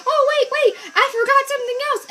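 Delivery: mock the lady's sudden remembering, cracking up; imitating the lady. Heavy lady on the stairs calling back, high laughing squeak. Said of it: "she goes".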